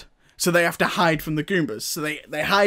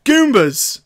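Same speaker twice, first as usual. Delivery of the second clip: higher alarmed yelp; mock shout; 7 semitones higher, 4 dB louder than usual. Brothers seeing Goombas behind them, mock shout. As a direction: yelp it like a cornered cartoon hero. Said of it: "so they go".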